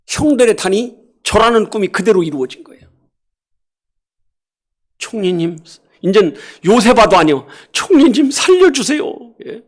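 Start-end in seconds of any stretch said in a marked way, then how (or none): 5.0-9.3 a mild dramatized plea for mercy; brothers begging for mercy. Retold or imitated. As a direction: beg the prime minister for your lives.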